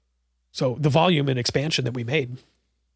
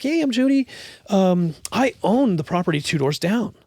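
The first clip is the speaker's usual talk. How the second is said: a hint of a bold, larger-than-life landlady; Judy's voice; 2 semitones higher than usual. Landlady introducing herself to the owner, lightly voiced. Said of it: "And she was like".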